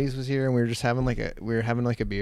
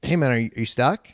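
raised voice to a man on a machine; calling out; 6 dB louder than usual. Retold or imitated. Teller hails stuck neighbor over a loud machine, calling out. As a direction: friendly call over engine noise. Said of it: "This thing's just loud".

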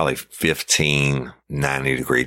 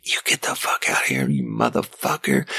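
retold hollering; 4 semitones higher than usual. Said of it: "starts hollering at me".

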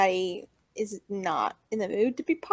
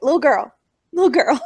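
imitating him; 8 dB louder than usual. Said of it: "He's like".

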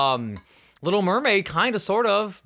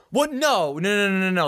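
real shock; 6 semitones higher, 3 dB louder than usual. Real, not acted. Reacting to shocking fact.

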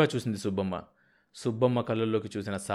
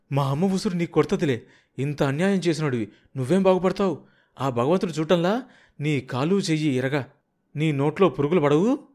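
bitter curse; 5 semitones higher, 4 dB louder than usual. Acted. Daughter curses the husband.

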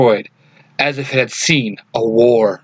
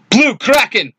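yell; 9 semitones higher than usual. A narrator's reading. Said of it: "Billy yells".

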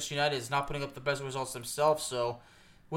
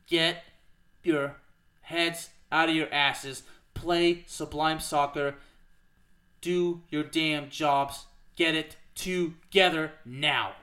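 halftime pep speech; much slower than usual. Real, not acted. Slow commanding rant at the team.

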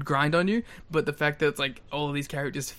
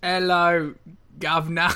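mock British accent; 3 semitones higher, 4 dB louder than usual. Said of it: "Oh, you're British".

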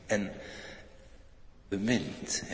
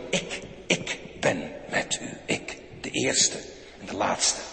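hushed promise; 3 semitones lower, slower than usual. Acted. God fluistert belofte.

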